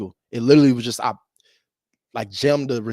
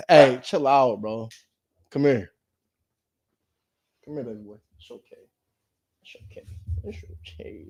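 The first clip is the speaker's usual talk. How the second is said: soothing the dog. Real, not acted. Soothing his puppy.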